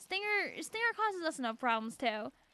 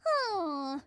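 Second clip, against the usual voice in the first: imitated background scream; much slower than usual. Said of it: "the high-pitched screams you have in the background".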